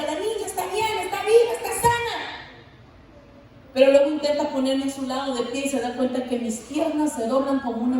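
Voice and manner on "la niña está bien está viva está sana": joyful celebration. Retold or imitated. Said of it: "mi papá celebra".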